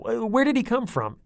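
high, loud startled father; alarmed question. A narrator's reading. Dad confronts his daughters, startled and loud. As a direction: blurt it out in shock. Dad demands answers from girls.

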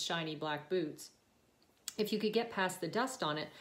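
measured, expressive audiobook reading; story narration. A narrator's reading. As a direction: read it aloud like a novel, phrase by phrase. Reads her book aloud.

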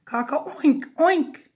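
high, loud piggy oinks; cockerel's oinking crow. A narrator's reading. Parent reads cockerel trying again, loud high oinking. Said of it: "So he tried again".

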